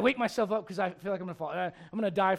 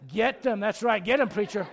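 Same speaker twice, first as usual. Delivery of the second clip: egging on preacher; 5 dB louder than usual. Retold or imitated. Voicing congregation egging him on.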